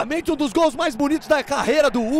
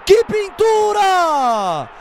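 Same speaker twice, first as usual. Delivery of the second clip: excited goal call; 3 semitones higher, 3 dB louder, slower than usual. Real, not acted.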